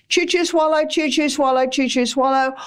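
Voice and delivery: brisk chew, chew, swallow rhythm; hurried chew chew swallow; quick chewing. Shown as a demonstration. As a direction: rattle it off quickly, gulping. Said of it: "or chew, chew, chew".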